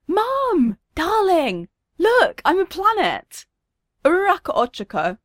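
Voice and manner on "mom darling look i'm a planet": put-on high-pitched child calling her parents; delighted, high little-kid voice; gleeful little girl. A narrator's reading. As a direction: call out with small-child glee, drawn out. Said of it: "giggles gleefully to herself".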